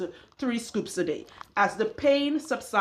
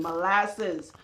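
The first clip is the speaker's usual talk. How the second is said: molasses said lightly in a Trinidadian accent; Trinidadian accent on molasses, lightly done. Shown as a demonstration. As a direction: give molasses a hint of Trinidadian lilt. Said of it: "I say to my Trinidadian accent".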